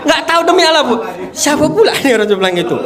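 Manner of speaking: high, loud, through laughter; laughing confession. Real, not acted. Speaker admitting he didn't know Pak Haji, laughing. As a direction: protest your ignorance while laughing at yourself. Laughing at own past ignorance.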